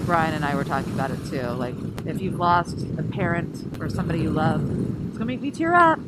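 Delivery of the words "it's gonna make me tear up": high, loud, fighting back tears; choked up. Real, not acted. Grieving rider telling herself not to cry, choked up. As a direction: voice rising as tears threaten. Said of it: "Choked me up just starting to say it".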